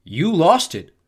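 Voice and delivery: put-on bully teasing the girl. A narrator's reading. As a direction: needle her with it. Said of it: "he teased".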